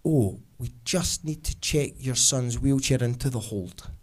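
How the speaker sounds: slow, low, lightly voiced airline clerk; drawn-out customer-service voice; check-in staff. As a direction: break it to them slowly. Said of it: "one of the check-in staff would say".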